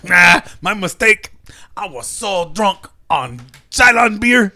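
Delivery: drawn-out Chicano stoner voice; slow down into a Chicano stoner confession; caricature Chicano accent. Acted. Comic as Olmos admitting a drunken mistake, caricature Chicano accent. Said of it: "this worst caricature stereotype".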